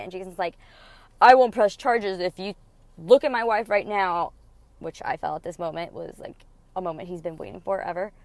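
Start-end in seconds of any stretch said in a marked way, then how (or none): 1.2-4.3 stern demand. Retold or imitated. Jason demanding an apology.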